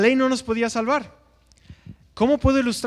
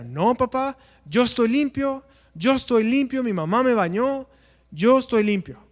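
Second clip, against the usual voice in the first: put-on higher, insistent little boy protesting; pleading child; 4 semitones higher than usual. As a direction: play the boy insisting he's clean. Preacher voices pleading child. (niño que insiste, voz más aguda)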